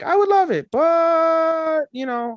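very high, loud sweet maid. Retold or imitated. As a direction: chirp it very high. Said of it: "Tarte is like".

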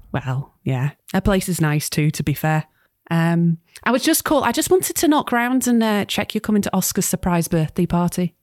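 put-on light Scouse accent as Sam, teasing her mum; gentle Liverpool nagging, accent held lightly. Sam chides her mum about the heating, light Scouse. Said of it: "I've forced you to do a Scouse accent".

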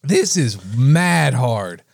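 struggling through a burning mouth; tongue on fire from hot food; mouth burning from spicy food. Real, not acted. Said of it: "My tongue is on fire".

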